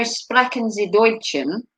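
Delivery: amateur German pronunciation; German accent. Acted. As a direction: attempt German with a poor accent. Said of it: "my poor German accent".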